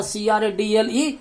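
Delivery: सी आर ए डी एल ई spelled letter by letter, rising at the end; spelling out cradle. Shown as a demonstration. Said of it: "क्रेडल माने पालना". (अक्षर-अक्षर spelling)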